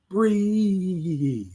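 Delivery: drawn-out soft breathe; a slow, tender exhale of Breathe; soft long breathe. Shown as a demonstration. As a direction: stretch the word Breathe long and gentle. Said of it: "Oh, that was cute".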